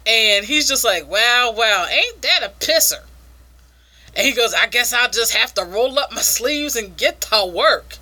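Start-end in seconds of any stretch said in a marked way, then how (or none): 1.1-3.0 imitated Southern amazement, pitch lifting at the end; Southern accent. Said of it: "supposed to be a Southern Weevil". 4.5-8.0 lightly hammed Southern weevil; imitating a Southern good old boy; Southern accent. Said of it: "I guess he's a Southern Weevil".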